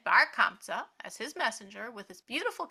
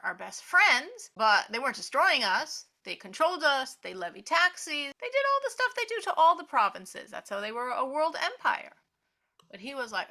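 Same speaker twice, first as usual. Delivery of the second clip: ordinary talk, nothing marked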